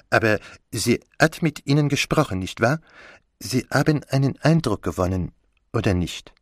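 probing detective in a lightly put-on voice; Poirot. Poirot questions Catherine about the woman, probing character voice. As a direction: coax out an impression as the detective.

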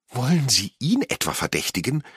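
high-pitched indignant outcry; outraged cry. A narrator's reading. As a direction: cry out in protest at the suspicion. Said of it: "schrie Angelina".

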